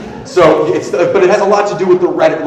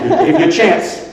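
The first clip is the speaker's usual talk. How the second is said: high mocking take; 8 semitones higher, slower than usual. Shown as a demonstration. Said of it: "repeated punchline".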